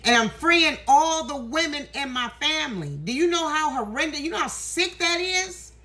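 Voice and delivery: emotional. Real, not acted. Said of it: "why I'm getting so emotional".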